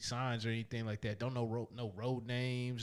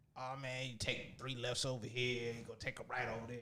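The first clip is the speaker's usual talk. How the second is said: put-on smoker's voice; 4 dB quieter than usual. Acting out a gas station worker giving directions: imitating a smoker's voice. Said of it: "the smoking voice".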